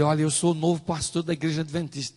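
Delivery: eager self-introduction, slightly lifted; a touch of retold excitement; mild enthusiasm. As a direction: introduce yourself keenly, still fairly contained. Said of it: "todo entusiasmado".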